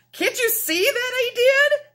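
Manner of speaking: high, loud indignant squawk; angry goose. Acted. Featherless goose scolding the animals, angry and high. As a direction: snap it at them like a cross goose. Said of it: "angrily stamping her foot".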